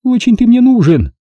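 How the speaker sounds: high scornful snort of a retort; Milka snorting. A narrator's reading. Milka scoffing at his jibe, high and scornful. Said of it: "Фыркнула она".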